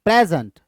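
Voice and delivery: "प्रेजेंट" with a strong प्रे; stress on first syllable. Shown as a demonstration. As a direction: punch प्रे in "प्रेजेंट", drop the rest. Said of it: "इस पे ज्यादा stress करते हैं". ("प्रेजेंट" में प्रे ज़ोर से, बाकी हल्का)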